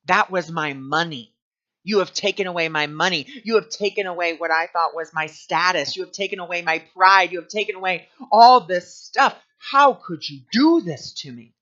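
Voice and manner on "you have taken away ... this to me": building angry outburst. Retold or imitated. Venting anger at the job loss.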